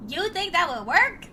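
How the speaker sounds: lightly attempted Trump accent; a hint of Trump accent; failed Trump accent. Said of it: "That does not sound like Trump".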